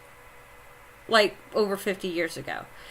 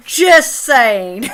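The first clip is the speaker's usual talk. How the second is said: laughing; 5 semitones higher, 9 dB louder than usual. Real, not acted. Laughs at own joke.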